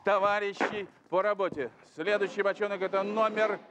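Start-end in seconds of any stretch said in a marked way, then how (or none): 1.9-3.6 bingo caller. Acted. Host calls drawn numbers.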